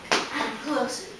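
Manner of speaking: soft, low storytelling that creeps along; hushed suspense. A narrator's reading. Storyteller as the mouse creeps toward the cat's tail, hushed suspense. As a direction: draw listeners in with a hush.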